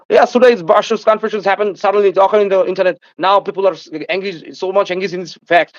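mock American English. Mocking how Americans talk to a critic, slow exaggerated American accent. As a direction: stretch every word like a lazy American speaker mocking them. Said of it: "তোমরা এইভাবে English বলো".

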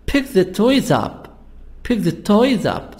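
"Pick", "toys" and "up" each stressed, "the" unstressed. Shown as a demonstration. Teacher shows students the separated verb, stressing "Pick", "toys", "up". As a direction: hit "Pick", "toys", "up" and pass lightly over "the". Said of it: "we stress on pick, toys up".

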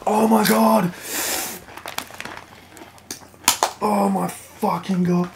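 hiccups while talking; talking between hiccups; hiccuping. Real, not acted. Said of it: "I'm already hiccuping".

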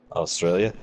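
lightly put-on Australian accent. Shown as a demonstration. Friend testing the one word, in light Australian accent. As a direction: try it with a hint of Australian. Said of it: "talk like them".

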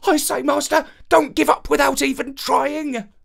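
a plucky little dog cheering him on. A narrator's reading. Little dog urging his master on, high and eager.

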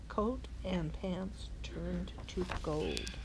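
slow hushed whisper. A narrator's reading. Reader to children, a slow hushed whisper. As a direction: breathe it like a secret.

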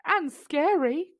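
slow, high nervous gasp. A narrator's reading. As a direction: gasp it out scared. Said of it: "gasped Tiger".

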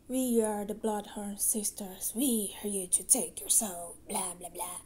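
a lightly voiced haunting proclamation, fading into boredom; mock spooky witch. Sister parodying the classic witch threat to a boy, mock spooky. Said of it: "We could go with the classics".

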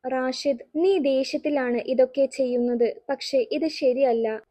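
lightly calm, soothing reply. Acted. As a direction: gently talk him down. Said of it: "Basheer ശാന്തമായി പറഞ്ഞു".

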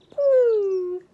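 high, loud yelp of disgust; loud disgusted poo. Acted. Storyteller reacting to the smelly cows, loud and high. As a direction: blurt it at the terrible smell.

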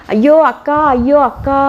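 high, loud scream for her sister; screaming cry. A narrator's reading. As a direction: cry out in panic. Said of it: "என்று மீனாட்சி கத்தினாள்".

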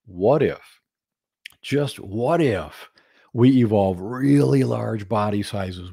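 slow, drawn-out scheming dinosaur; comic dinosaur idea. Acted. Third dinosaur pitching his big idea to the herd, slow and sly. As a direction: savour the idea, dragging out what if. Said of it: "humorously, something like this".

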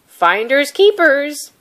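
loud, slow, gruff refusal; growled. Acted. Fisherman refusing My My, growling loud and slow. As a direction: shut her down flatly. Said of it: "he growled".

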